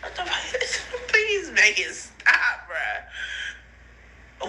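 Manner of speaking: laughing, pleading; half laugh, half cry. Real, not acted. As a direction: beg through laughter. Laughing and crying.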